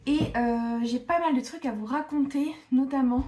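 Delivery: breathless after climbing the stairs; panting between words; out of breath. Real, not acted. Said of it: "je suis essoufflée".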